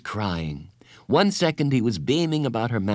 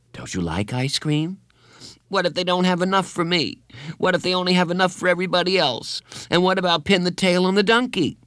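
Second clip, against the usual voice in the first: higher, worried tumbling questions; a child fretting over party games; anxious boy; 10 semitones higher than usual. A narrator's reading. Bradley fretting to Carla about party games.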